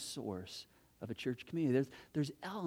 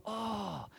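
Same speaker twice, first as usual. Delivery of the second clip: mock sigh; 4 semitones higher, 5 dB quieter than usual. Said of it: "that universal cry".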